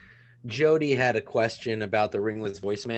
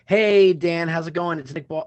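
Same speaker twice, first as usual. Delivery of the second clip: voice message; 5 semitones higher, 7 dB louder than usual. Shown as a demonstration. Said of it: "oh, no, no".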